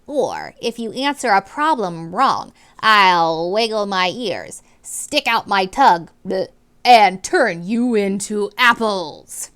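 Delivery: slow, loud, threatening teacher voice; drawn-out villainous threat; menacing warning. Acted. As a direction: warn the children like a wicked teacher. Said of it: "she warned".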